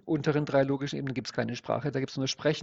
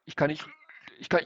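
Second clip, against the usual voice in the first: stuck repeating, unable to finish; halting, cut-off repetitions; failing to get the word out; 2 semitones higher, faster than usual. Shown as a demonstration. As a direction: break off before the forbidden word, over and over. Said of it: "Sie müssten ja sagen".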